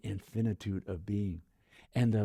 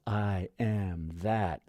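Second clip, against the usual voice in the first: slow affirmation; much slower than usual. Shown as a demonstration. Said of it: "say it with the awareness of".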